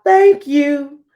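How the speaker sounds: high, loud thank you; grateful shout. Acted. Hippo thanking the child for the laces, high loud shout. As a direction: burst out with relief and thanks. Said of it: "she shouted out".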